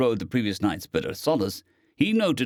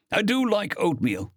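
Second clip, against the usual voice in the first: honest; 9 semitones higher than usual. A narrator's reading. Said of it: "with perfect honesty".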